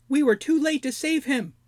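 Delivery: high, pinched, whining goblin voice; whiny goblin. Acted. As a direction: whine it like a sniveling little goblin. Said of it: "whined Snoke".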